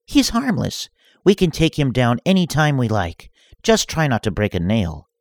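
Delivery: high scornful dismissal, lightly growled; mock growl. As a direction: sneer at her partner. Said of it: "Fortiri growled".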